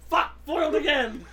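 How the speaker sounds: sputtering foiled villain. Retold or imitated. Dad voiced as cartoon villain.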